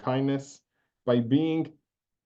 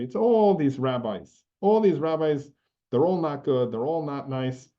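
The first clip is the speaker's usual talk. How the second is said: ranting. Retold or imitated. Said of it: "he started on a rant".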